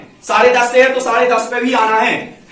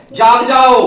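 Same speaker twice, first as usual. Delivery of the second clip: rooster's wake-up call; 6 dB louder, much slower than usual. Retold or imitated. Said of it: "वो अपनी भाषा में क्या संदेश देता है".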